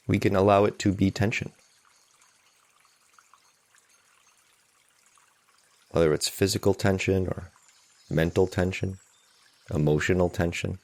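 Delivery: calm, unhurried meditation guide; guided meditation. Real, not acted. Meditation teacher settling listeners into a morning sitting, calm guided meditation. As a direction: lead them gently, with long silences between phrases.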